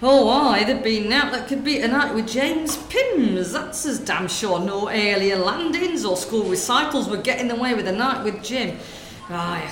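lightly voiced gossiping northern woman, chatty; northern shop lady. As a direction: natter away like a corner-shop lady. Sketch, shopkeeper daydreams.

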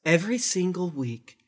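slow, hushed cult leader. Acted. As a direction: intone it like a creepy guru. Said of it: "turn off your cult leader voice".

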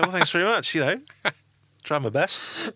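a touch of ironic modesty; mock polite thanks. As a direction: thank them with wry politeness. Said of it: "And I was like".

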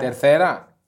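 "Τερθέρα" with a th sound in the middle; lisped Spanish c. Shown as a demonstration. Host answering co-host's "Τερχέρα", saying "Τερθέρα" with th. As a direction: say "Τερθέρα" with th, not a throaty h. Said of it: "Τα λέω με άλλη αργεντίνικη προφορά".

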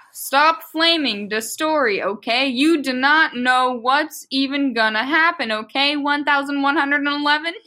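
slow, deliberate story reading; fan fiction read-aloud. Acted. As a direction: read the author's note slowly, word by word.

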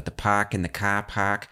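park and car park said with the R dropped, Boston style; Boston R-dropping. Retold or imitated. Host quoting the Boston man, park and car park without the R. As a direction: imitate Boston "pahk" and "cah pahk". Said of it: "pronounce words with A R".

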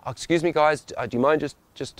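high, hesitant polite request; overly polite. Acted. Late traveller asking a family to let him by, timidly polite. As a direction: tiptoe politely around the request. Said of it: "there's politer ways I could do that".

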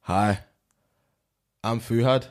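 tentative mock German; German accent. Friend taking his turn on a dare, weak German accent. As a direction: badly attempt a German accent. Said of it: "All right, you go now".

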